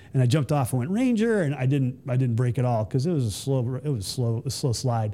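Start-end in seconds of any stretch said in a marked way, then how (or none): 0.9-1.4 high mock call-out; jumping battle cry. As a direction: sing out the cry as you leap. Calling out as he jumps off tower.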